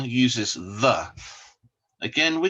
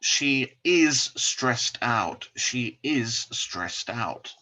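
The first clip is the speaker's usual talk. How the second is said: slow model sentence; much slower than usual. Shown as a demonstration. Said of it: "So here we can say".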